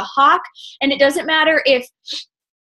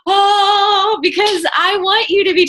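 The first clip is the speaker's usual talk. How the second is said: surprised oh; 10 semitones higher, 4 dB louder, slower than usual. Retold or imitated. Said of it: "I'm like".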